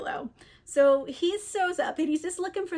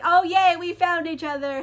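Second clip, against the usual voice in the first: higher, louder "yay" settling down; mock happy; 4 semitones higher, 4 dB louder than usual. Friends find each other and they're happy, mock delight. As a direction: cheer the reunion playfully. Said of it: "they're happy".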